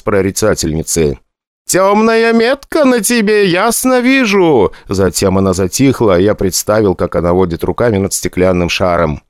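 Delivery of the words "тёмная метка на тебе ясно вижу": high, slow theatrical fortune-teller voice; prophetic trance voice. A narrator's reading. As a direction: intone it like a stage seer. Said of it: "хорошо поставленный в каком-нибудь театральном училище голос".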